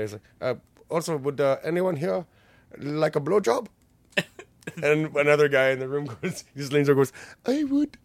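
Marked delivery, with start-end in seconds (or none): 0.4-3.7 mock pimp voice. Acted quote of the pimp. 7.5-8.0 very high, laughing squeak; eager guy volunteering, squeaky and laughing. Retold or imitated. Acted quote, eager volunteer.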